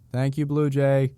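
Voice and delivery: gritado hacia lejos, más agudo y fuerte; llámalo mientras se aleja; calling out. Acted. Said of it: "Carmen called out".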